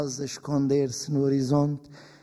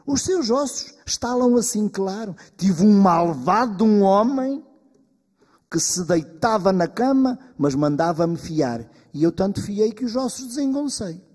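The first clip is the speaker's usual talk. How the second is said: put-on old woman's lament; 5 semitones higher, 7 dB louder than usual. Old woman complains of cruel husband.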